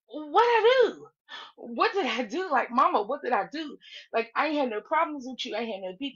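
imitating an innocent, bewildered plea; baffled protest. Slim answering her attack on the panel, baffled protest. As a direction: act out a man at a loss over the accusation. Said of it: "Slim was, like, truly baffled".

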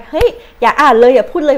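loud, brusque mock rebuke; mock scolding. Vlogger imitating a rude commenter, loud mock scolding. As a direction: snap it like a rude commenter brushing her off.

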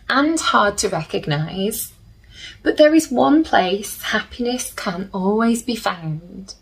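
gentle storybook reading with slow pauses; soothing storybook narration for little listeners; reading to children. A narrator's reading. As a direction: read it like a bedtime picture book. Reads the book's back blurb.

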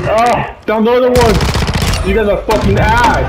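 high, loud yelling at teammates; excited gamer shout. Real, not acted. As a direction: yell it in the heat of the match, pitch way up. Shouting in excitement mid-game.

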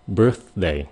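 "birthday" with a short stop of air on "birth" before "day"; birthday demo. Shown as a demonstration. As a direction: clip the th of "birthday" and move quickly on to "day". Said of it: "Mình phát âm cái chữ day". ("birthday" chặn hơi nhanh rồi sang "day")

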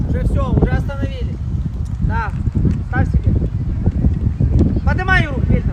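loud calls across the pitch; yelling from the sidelines. Real, not acted. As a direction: call out commands loudly. Coach calling out during pause. (крик с бровки)

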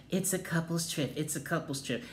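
a hint of a snooty Sanya; mocking Sanya. Imitating Sanya on FaceTime to Kenya, softly snide. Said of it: "to tell Kenya, not once, but two times".

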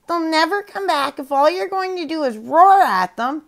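high squawky parrot voice. Acted. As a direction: wise parrot advising. Parrot advises panda.

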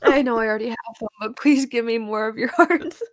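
normal talking voice

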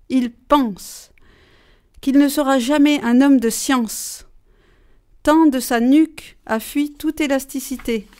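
déclamer avec emphase, vers par vers; déclamation de poème. Shown as a demonstration. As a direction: lecture solennelle d'un poème. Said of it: "je vais déclamer un petit poème". (poème déclamé avec solennité)

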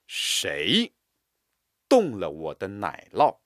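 谁 set apart and firm; stress on 谁. Shown as a demonstration. Teacher drilling, stress on 谁. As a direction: hit 谁 hard. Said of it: "加重力度和音强".

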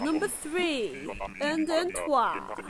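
slow, French read in a Yorkshire accent. Shown as a demonstration. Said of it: "French don't really work in my Yorkshire accent".

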